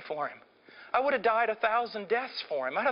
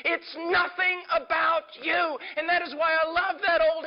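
preacher crying out to the congregation; fervent preaching shout; 7 semitones higher than usual. Real, not acted. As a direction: build to a fervent shouting climax. Preacher building to climax.

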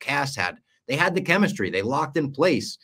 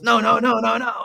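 high, rapid-fire string of cries; mock panic; 11 semitones higher, 6 dB louder than usual. Podcaster retells Penguin watching his rival collapse, mock-panicked. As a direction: imitate someone frantic, pitched way up.

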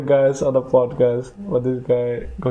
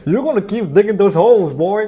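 laughing, mock-tough boss voice, louder; mock harsh boss; 6 semitones higher, 4 dB louder than usual. The boss barking at a lazy new hire, mock-tough and laughing. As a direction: bark at him like a redneck foreman, half laughing.

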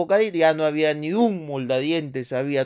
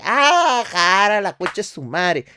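startled father; 3 semitones higher, 4 dB louder, much slower than usual. Retold or imitated. Father finding the opossum on grandma's foot, startled. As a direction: jolt of surprise, then swearing.

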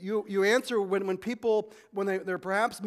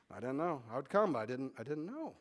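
sulky excuse; 4 semitones lower, 7 dB quieter than usual. Acted. Churchgoer sulks.

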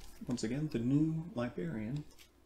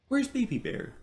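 put-on children calling out; 12 semitones higher than usual. A narrator's reading. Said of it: "the children cried".

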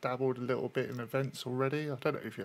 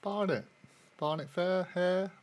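Cockney rhyming slang; 5 semitones higher, 3 dB louder than usual. Acted. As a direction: explain the slang patiently. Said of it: "It's called Cockney slang".

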